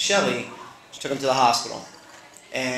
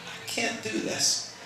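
panicked whisper; 8 semitones higher, 9 dB quieter, slower than usual. Retold or imitated. Many a panic attacks.

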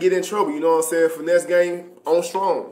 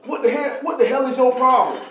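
high, raised mock-angry sergeant; 6 semitones higher than usual. First Sergeant Kane scolding private Dennis in office, angry. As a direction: chew him out like a mean boss. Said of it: "he start talking to me".

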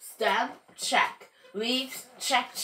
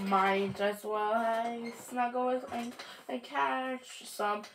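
soft, drowsy murmur; sleepy; 6 dB quieter than usual. Acted. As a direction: wind down for a nap. Seed settling down to sleep.

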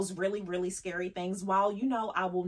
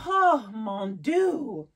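dramatic French exclamation; 2 semitones higher, 6 dB louder, much slower than usual. Acted.

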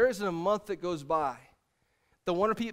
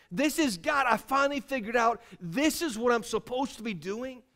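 emphatic preacher's declaration; forceful, determined pulpit delivery; impassioned preaching; 3 semitones higher, 3 dB louder than usual. Acted. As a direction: drive it home with rising conviction.

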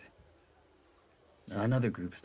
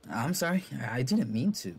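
apologetic higher voice; 4 semitones higher than usual. Acted.

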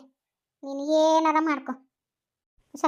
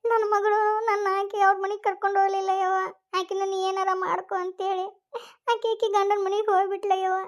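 crying; 4 semitones higher than usual. Acted. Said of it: "ಯಾಕ ಅಳಕತ್ತಿ?".

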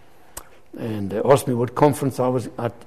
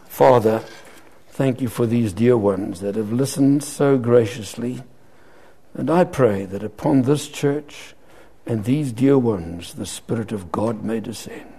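slow, reverent public prayer; 2 semitones lower than usual. Real, not acted. Preacher praying over the church's dear ones, prayer. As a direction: pray unhurriedly for the congregation.

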